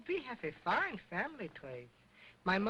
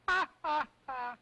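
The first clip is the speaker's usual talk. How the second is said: loud fake ha ha; hammed-up laugh; mock laugh; 6 semitones higher, 4 dB louder than usual. Dummy's mock laugh at joke.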